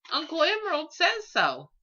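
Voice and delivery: put-on high, small child's reply; little dragon child, matter-of-fact. A narrator's reading. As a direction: answer like it settles everything. Child voice in story.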